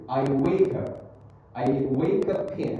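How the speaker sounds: slow "wake up in" run together; linked words. Shown as a demonstration. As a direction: link "wake up in" as "way-ku-pin". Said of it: "ini disambungin ya".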